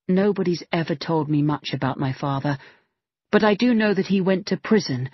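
lightly voiced determined girl building a threat; young woman's voice. Megan threatening her stepfather over money, lightly voiced.

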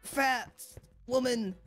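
high, urgent mock panic; high-pitched breathless game panic; panicked. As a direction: yelp in play terror as you flee. Chased by monster in game.

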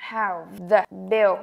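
"How the bill" with the words squeezed together; fast natural speech. Shown as a demonstration. Teacher showing the quick spoken form of the phrase. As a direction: clip it the way it sounds when said fast. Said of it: "Nói nhanh là".

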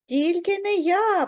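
high-pitched mouse squeal; squeaking. A narrator's reading. Mouse Верть refuses to knead dough, squeaking. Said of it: "пропищав Верть".

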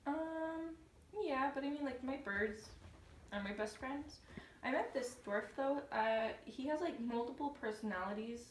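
timid soft. Acted. Snow White timid, soft.

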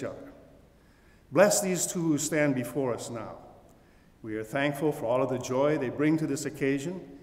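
solemn prayer, projected. Acted. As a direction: lead the congregation in prayer. Leads a prayer.

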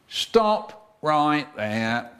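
slow, measured guard's order; security guard. Acted. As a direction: halt someone with slow, drawn-out authority. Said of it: "said security guard".

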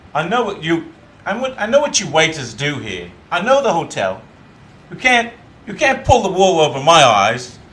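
middle-class Jamaican with British polish; Jamaican accent. Shown as a demonstration. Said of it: "a short line?".

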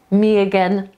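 me again run together as 'miyagen'; me again as one joined word; linked words. Shown as a demonstration. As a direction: glide from me into again without a break. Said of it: "to się połączy nam w jedno".

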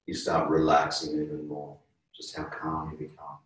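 calm, unhurried yoga teacher voice, softening at line ends; guided relaxation. Real, not acted. Yoga teacher guiding a class through breathing, calm guided relaxation. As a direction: ease them gently toward rest.

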